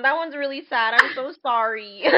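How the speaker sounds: sheepish laughing sorry; laughing apology. Real, not acted. Laughing after sad letter.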